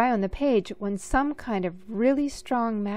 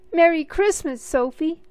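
much higher, much louder joyful bellow; 8 semitones higher, 8 dB louder than usual. A narrator's reading. Little brother bellowing Christmas greetings at Sophie. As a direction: boom out the greeting. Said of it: "he bellowed".

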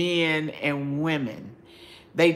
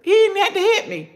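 amused recollection; 13 semitones higher, 5 dB louder, faster than usual. Real, not acted. Laughing about fear of father.

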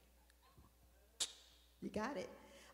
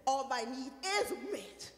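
slow and deliberate: "All my need is met"; slower than usual. Shown as a demonstration. Pastor leading the church to say it slowly. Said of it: "Now we're gonna say it like this".

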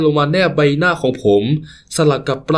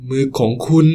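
plain reading voice

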